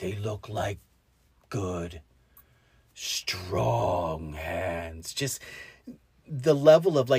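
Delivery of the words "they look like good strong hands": deep, slow, quiet, sorrowful, heavy-hearted voice. Retelling a film scene about protecting hands: imitating the Rock Biter's sad, disappointed voice. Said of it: "disappointment and and sadness in his voice".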